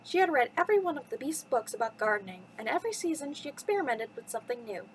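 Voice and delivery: lively storytime narration with swooping pitch; children's story reading. Acted. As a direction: read it to little listeners, lilting from phrase to phrase. Reads a children's bedtime story.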